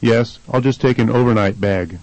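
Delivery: "overnight" stressed on O, its first syllable. Shown as a demonstration. Answering the question about staying, stress on O in "overnight". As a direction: shift the weight forward to the O of "overnight". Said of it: "the first syllable is stressed".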